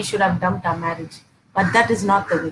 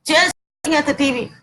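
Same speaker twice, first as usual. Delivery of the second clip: raised-pitch, mildly exasperated complaint; irritated wife; 4 semitones higher than usual. Acted. Wife nagging husband glued to the TV, irritated. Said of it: "get irritated".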